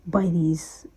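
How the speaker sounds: swallowed words. Real, not acted. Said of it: "I was about to use a swear word".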